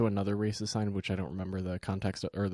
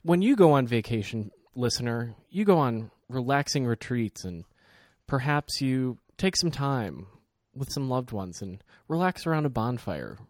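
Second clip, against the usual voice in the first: mock travel ad read. Addresses listener in mock ad voice.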